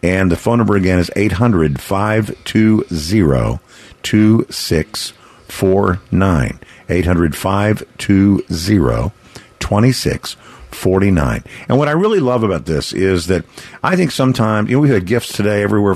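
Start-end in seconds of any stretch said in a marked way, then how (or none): 1.2-11.4 timeshare sales pitch. Real, not acted. Slow phone number read.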